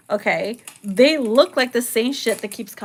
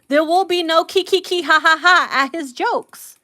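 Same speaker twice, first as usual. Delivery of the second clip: mocking jealous rule; 5 semitones higher than usual. Mocking laughter, jealous partner.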